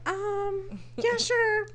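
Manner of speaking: high, awkward, giggly reluctant agreement; reluctant yes. Retold or imitated. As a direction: squeak out a hesitant sure while laughing. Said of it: "And I was like".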